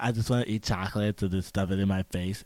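a hint of the spoiled SoCal girl; valley girl voice. Friend mocks the chocolate binge in a light valley girl voice. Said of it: "It's that voice?".

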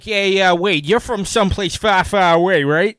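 mock Boston accent, chatty interviewer; vicious Boston accent. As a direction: ask it in a put-on thick Boston accent. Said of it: "the most vicious Boston accent".

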